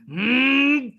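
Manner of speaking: drawn-out, high ring announcer call of Carlos. Shown as a demonstration. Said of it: "uh, emphasis on".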